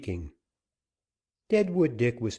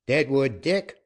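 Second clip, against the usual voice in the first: calling out; 5 semitones higher, 5 dB louder than usual. Acted. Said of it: "Then Captain Joaquin called out".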